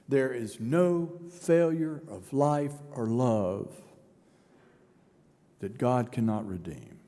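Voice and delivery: slow and calm; slow, gentle promise; assuring declaration. Acted. Easter's answer, slow assurance.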